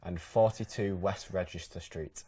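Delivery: slow test phrase. Shown as a demonstration. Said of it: "repeat a couple of phrases for me".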